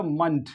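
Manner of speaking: मंथ said as short "munt"; schwa ending. Shown as a demonstration. Teacher explains the ending, schwa "munt". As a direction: reduce the vowel in मंथ to "uh", ending in T. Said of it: "श्वा हो जाएगा".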